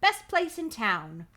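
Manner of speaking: slow, badly faked Manchester accent; wobbly mock Manchester English. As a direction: attempt a Manchester accent, stretching the words. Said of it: "Guy's from Manchester for some reason".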